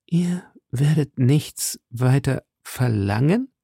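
slow, stressed "Ihr werdet nichts weiter verlangen", each word set apart, rising at the end; emphasis on every syllable. A narrator's reading. Buckingham repeats Felton's words in astonishment, stressing every syllable. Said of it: "auf jede Silbe dieser fünf Worte einen besonderen Nachdruck".

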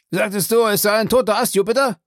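trembling voice. Acted. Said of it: "mit bebender Stimme".

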